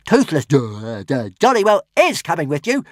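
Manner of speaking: high, stammering, indignant; small dragon insisting on coming along; indignant little dragon. Acted. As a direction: stammer in outrage. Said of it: "said Toothless indignantly".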